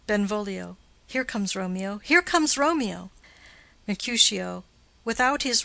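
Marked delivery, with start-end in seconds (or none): 2.0-3.1 excited call. Acted. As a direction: announce him eagerly as he comes into view. Benvolio spots Romeo arriving.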